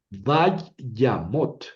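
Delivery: Vayamot sounded out in separate syllables. Shown as a demonstration. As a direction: break Vayamot into vay, ya, mot. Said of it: "La primera sílaba es Vay".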